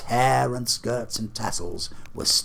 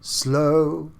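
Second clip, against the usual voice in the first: slow, loud, solemn spirit; a booming ghost demanding an answer; 6 semitones higher, 6 dB louder than usual. Acted. Marley's ghost challenges Scrooge, solemn and booming.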